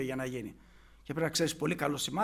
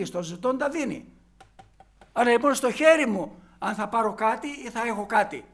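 louder, higher-pitched sermon delivery; emphatic preaching; 4 semitones higher, 5 dB louder than usual. Acted. Preacher urging the congregation on through human weakness, emphatic. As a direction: preach it in forceful bursts.

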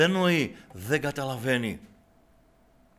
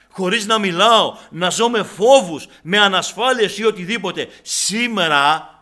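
louder and higher, pressing the congregation; fiery preaching; 7 semitones higher, 12 dB louder than usual. Real, not acted. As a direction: preach it out at full force. Preaching rises to full force. (δυνατό, φλογερό κήρυγμα)

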